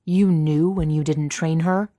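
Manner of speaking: loud, indignant disbelief; incredulous. A narrator's reading. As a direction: accuse in sheer disbelief. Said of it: "He sounds incredulous".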